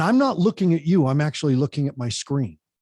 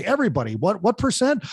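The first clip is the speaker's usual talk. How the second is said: higher call to everybody; higher, lively call to the audience; rallying the crowd; 5 semitones higher, faster than usual. Shown as a demonstration. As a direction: whip up the whole room. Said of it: "And I'll say".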